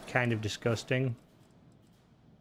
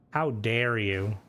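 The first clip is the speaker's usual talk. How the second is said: mock outrage; 4 semitones lower, much slower than usual. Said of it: "fuck you, Mona".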